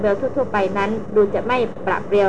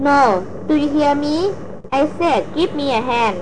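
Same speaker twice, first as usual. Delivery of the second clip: higher-pitched demanding call, narrated as a yell; understated yell; 5 semitones higher, much slower than usual. A narrator's reading. Bel hanging from the cliff calls to Rapin for help, yelling. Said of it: "เบลแผดเสียงตะโกนลั่น".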